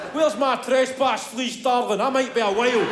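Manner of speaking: pompous country squire; pompous gent. Retold or imitated. Imagined posh hunter dad.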